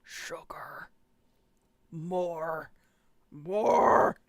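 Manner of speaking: whispered then rasped monster demands; bug guy from Men in Black. Pretend. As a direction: croak like the alien bug. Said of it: "the bug guy from Men in Black".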